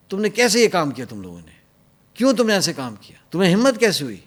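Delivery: mock the general's angry accusation. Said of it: "غصے میں نا یوں چ". (غصے میں جنرل کی نقل)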